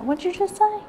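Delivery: high, puzzled voice of the boss; mimicking her boss. Mimicking her boss asking what she just said, high and puzzled. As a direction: play the baffled boss. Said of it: "she'd always say".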